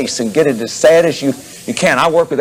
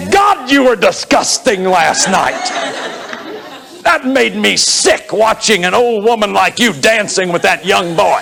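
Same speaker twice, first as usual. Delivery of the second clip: shaming attack; 3 semitones higher than usual. Shown as a demonstration. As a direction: sneer at her like a scornful partner. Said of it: "how totally shaming".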